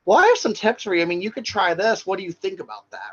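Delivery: gently offered advice, lifted pitch at the start; encouraging suggestion. Acted. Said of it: "you'd rather encourage or suggest".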